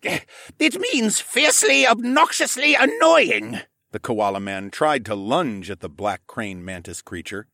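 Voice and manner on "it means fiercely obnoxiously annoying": high voiced figure, slow and louder; deliberate explaining. A narrator's reading. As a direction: spell it out slowly.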